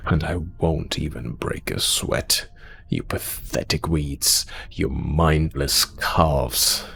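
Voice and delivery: slow, low, scornful insults; contemptuous menace. Acted. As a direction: drop the threat low and drag out the insults. Threat sinks into slow insults.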